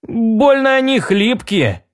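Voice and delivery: high, drawn-out doubtful remark. A narrator's reading. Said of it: "с сомнением пробормотал Джонни". (с сомнением, высоко и протяжно)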